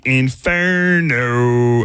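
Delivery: announcer-style drawn-out Inferno; slow, stretched demo of the sign-off word. Shown as a demonstration. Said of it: "at the end, say".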